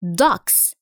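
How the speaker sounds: ducks ending in a hissing s; plain s. Shown as a demonstration. Teacher shows pupils the plural ending, ducks with s. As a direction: finish ducks with a sharp s. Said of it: "ينطق حرف ال S كما هو".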